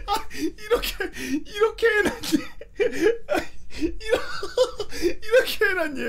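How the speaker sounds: high laughing lament, grandma voice; grandmother. Retold or imitated. Grandmother lamenting, high laughing old-lady voice. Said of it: "grandmother continues".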